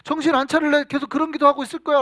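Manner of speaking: hammed-up exasperated telling-off; acted scolding. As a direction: play God sternly telling off a mature believer. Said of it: "막 혼낸단 말이죠".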